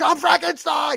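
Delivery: shrill, high-pitched shouting yell. Recalling how everyone yelled in a movie, retelling a movie yell. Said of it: "Everyone yelled in Van Helsing".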